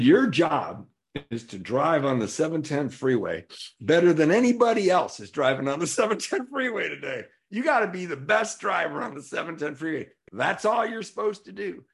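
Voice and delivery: high, insistent mock instructions; emphatic sponsor. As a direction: hammer out the order like a coach. Acts out sponsor giving absurd orders.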